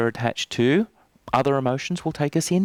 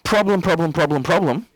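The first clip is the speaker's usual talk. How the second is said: whisper; 4 semitones higher than usual. Shown as a demonstration. Demo chanting the anchor words.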